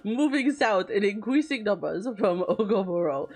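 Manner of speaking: sweet princess voice, as if redeemed; cartoon princess. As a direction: play a storybook princess. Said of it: "they don't think I just talk like this all the time".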